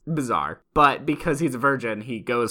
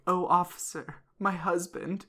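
lightly voiced fake-tearful widow; hint of a hammed-up grieving wife; mock distraught widow; 4 semitones higher, 7 dB quieter than usual. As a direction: play up sorrow for the officer. Debbie fakes grief to police.

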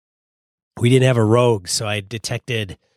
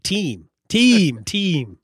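Al Capone; 6 semitones higher, much slower than usual. Acted. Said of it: "you gotta be Al Capone when they're meeting".

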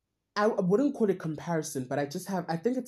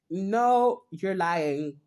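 mock protest; 3 semitones higher, 5 dB louder, much slower than usual. Rejecting teachers' praise, retold.

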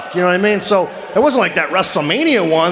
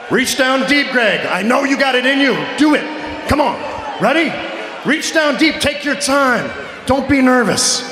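hammed-up pep talk; 5 semitones higher than usual. Boss urging announcer to go big.

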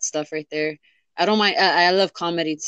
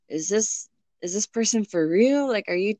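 higher-pitched sceptical questioning; mock disbelief; 4 semitones higher than usual. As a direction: question it as if you can't buy the act. Imagined reaction to movie-like romance.

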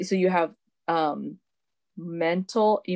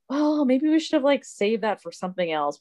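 nagging inner voice; 6 semitones higher than usual. Retold or imitated. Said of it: "this little voice in our head saying".

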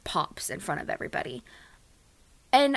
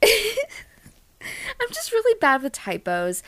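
laughing confession; 11 semitones higher, slower than usual. Real, not acted.

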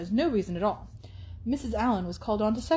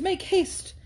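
calling out again; 10 semitones higher than usual. Acted. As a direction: repeat the hurry call, easing off. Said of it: "he was calling out to Miss Moreland".

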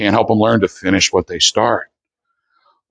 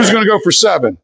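hype call; 8 semitones higher than usual. Acted. Hyping up the group.

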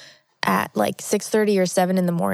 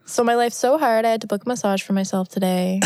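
changed voice; 3 semitones higher, faster than usual. Acted. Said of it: "I like how you always change your voice for that".

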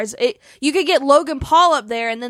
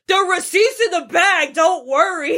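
high-pitched call across the house; retold yell; 6 semitones higher than usual. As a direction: yell it out to someone in another room. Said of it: "I yelled".

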